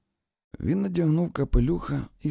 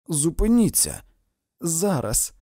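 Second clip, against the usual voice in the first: loud, high-pitched command; exclaiming; 8 semitones higher, 6 dB louder than usual. A narrator's reading. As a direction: cry out for it to stop. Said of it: "вигукнула вона крізь сміх". (вигукуючи)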